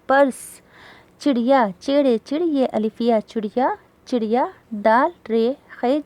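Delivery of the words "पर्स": पर्स as one syllable, "pars"; no vowel after r in पर्स; half-sounded r. Shown as a demonstration. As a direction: run r straight into s in पर्स. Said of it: "पर्स पढ़ा जाएगा".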